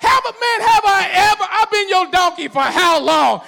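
high and loud, hurt donkey voice; talking donkey. Retold or imitated. Donkey pleads with its master, high and loud.

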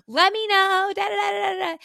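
high, loud, rushed excited voice; excited chatter. Retold or imitated. Manager rattling off details, high bubbly chatter. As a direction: bubble over with the plan. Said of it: "She's like".

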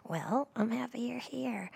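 slow whispered ASMR greeting. Acted. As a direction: whisper it close to the mic. ASMR host greets listeners.

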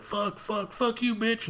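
high-pitched mock cursing at the game; mock gamer rage. Player cursing a game character after losing, high mock rage.

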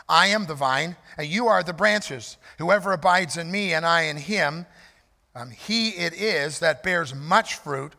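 measured, solemn reading of the verses; scripture reading. Acted. Pastor reads John fifteen to the standing congregation, solemn scripture reading. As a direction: read it out as holy word, steady.

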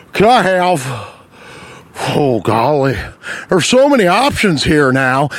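mock old-timer dithering at the counter; lightly voiced bewildered older man; dithering older customer. Line-cutter ordering at McDonald's, mock dithering voice. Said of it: "and he goes".

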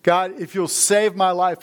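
half-acted plea shouted at the sky; imitating a frightened sailor's prayer; retold desperate cry. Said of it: "he screams out and says".

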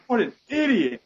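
high, loud imitated screech; mock screaming. Teammate heard screaming through the TV, high mock scream. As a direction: screech it like a disgusted teammate on voice chat. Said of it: "like, screaming at me".

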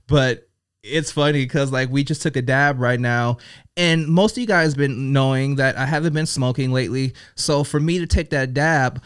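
talking while high; stoned. Real, not acted. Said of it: "I'm pretty high right now".

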